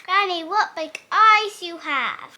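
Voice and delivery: loud cry of wonder; girl shocked at the big eyes, loud; amazed. Acted. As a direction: exclaim it, astonished. Red amazed at granny.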